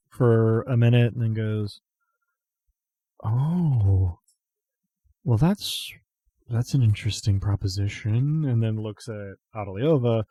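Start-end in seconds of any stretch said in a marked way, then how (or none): 3.2-8.4 wide-eyed surprise. Acted. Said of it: "gets kind of wide-eyed".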